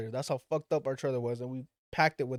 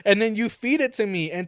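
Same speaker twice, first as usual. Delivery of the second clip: loud mock outrage; a hammed-up how-dare-you; outraged; 4 semitones higher, 7 dB louder than usual. Son accusing his dad of cooking his pet, loud mock outrage.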